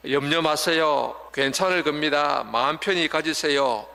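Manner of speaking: gently reassuring a sick person, unhurried at first; comforting. Retold or imitated. Visiting someone lying ill, a mild reassuring voice. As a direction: soothe them kindly, without much show. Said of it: "이렇게 위로합니다".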